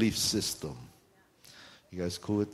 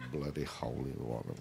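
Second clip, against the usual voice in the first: much softer, low muttered curse; under the breath; 10 semitones lower, 10 dB quieter than usual. Retold or imitated. Son cursing his dad under his breath, much softer and lower. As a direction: grumble it low so dad can't hear. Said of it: "I would say those things under my breath".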